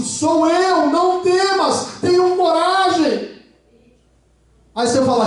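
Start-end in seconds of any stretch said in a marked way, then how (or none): 0.0-3.3 a hint of a calm, slow Jesus; lightly reassuring Jesus voice; lightly voiced Jesus. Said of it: "Jesus fala assim".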